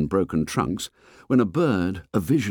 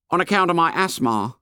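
put-on fat boy voice; 9 semitones higher than usual. A narrator's reading. Fat boy complains to the fair boy, high and whiny. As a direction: complain like a chubby schoolboy. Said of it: "he explained".

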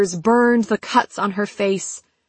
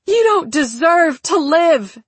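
high, raised, enraged voice; furious outburst; 7 semitones higher, 4 dB louder than usual. A narrator's reading. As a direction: spit fury at a murderer. Mother raging at the killer.

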